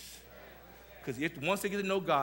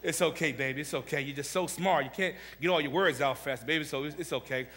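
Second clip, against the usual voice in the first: a touch of tender mother; 2 semitones lower than usual. Retold or imitated. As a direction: comfort a stuttering child gently. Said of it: "my mother said".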